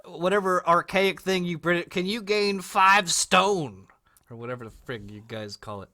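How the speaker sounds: a lightly voiced Hollywood producer; casting producer. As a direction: sell him the fat-guy role. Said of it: "They'd be like".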